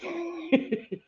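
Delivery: high, softened imitation of cursing; mock mad. Streamer showing viewers her cursing, mock mad. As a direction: curse under pretend anger, high and held back. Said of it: "I was so mad, like".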